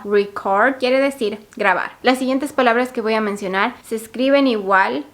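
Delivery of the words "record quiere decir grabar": record said reCORD, stress on CORD; slow, stress the end of record; last-syllable stress. Shown as a demonstration. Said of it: "haciendo énfasis en la última sílaba". (record con acento en la última sílaba)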